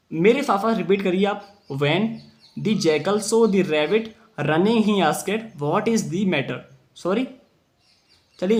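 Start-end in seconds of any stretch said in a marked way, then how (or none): 1.7-6.6 slow read-aloud. Shown as a demonstration. Teacher reads story for class.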